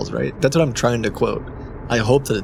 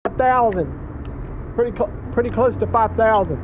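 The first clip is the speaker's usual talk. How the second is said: higher, hurried caller voice; flustered caller voice; 10 semitones higher than usual. Pretend. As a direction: play a frazzled driver on the phone.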